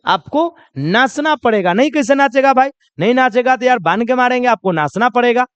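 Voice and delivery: half-joking threatening insistence; mock threat. Wedding guest mock-threatening a shy dancer. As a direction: lightly threaten him into dancing. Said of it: "अब ऐसे लोग धमकी देता है".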